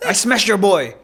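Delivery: put-on rough Dagestani-Russian fighter accent. Playing a Dagestani fighter for laughs, Russian accent. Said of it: "It's more of a Russian accent".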